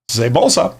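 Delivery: put-on light stage French accent; a quick French-accented quip, tongue in cheek; mock French accent. Answering the French viewer, in a light mock French accent. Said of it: "I have to glue on a mustache in order to talk like that".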